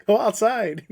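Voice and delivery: high-pitched mock yell through laughter; retold yell. Ghost hunter retelling their panic at the house, mock yell. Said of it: "We're both yelling".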